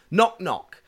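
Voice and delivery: high, loud little call; retold child's shout. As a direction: imitate a kid calling out a joke. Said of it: "So she shouts".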